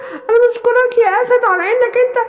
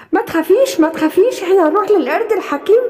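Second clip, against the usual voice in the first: reassuring lion; 2 semitones lower than usual. Acted. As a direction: tell her not to be afraid, gently.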